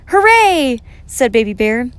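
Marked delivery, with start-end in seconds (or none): 0.1-0.8 very high, loud hooray; joyful cheer. A narrator's reading. Baby Bear joins Samantha's Christmas joy, joyful cheer. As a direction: whoop it out like an excited little one.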